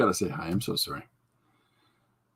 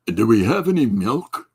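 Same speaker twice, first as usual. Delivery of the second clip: a hint of a swoopy character voice; Jim Luan; 3 dB louder than usual. Performing for the viewers after "let me try", lightly swooping impression. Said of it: "It's my Jim Luan impression".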